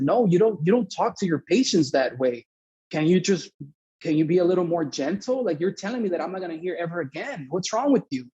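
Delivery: heated, exasperated telling-off; indignant scolding. Retold or imitated. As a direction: push back at someone, offended. Retold angry argument with doctor.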